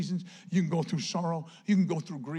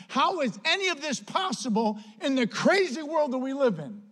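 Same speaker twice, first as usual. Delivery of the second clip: louder, higher preaching with building force; impassioned preaching; 4 semitones higher, 4 dB louder than usual. Real, not acted. Preacher urging the church toward overflowing joy, impassioned. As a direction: preach it out, pitch climbing to the question.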